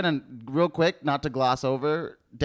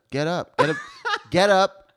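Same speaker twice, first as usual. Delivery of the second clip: mock yell; 3 semitones higher, 5 dB louder than usual. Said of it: "you yelling might wake them up".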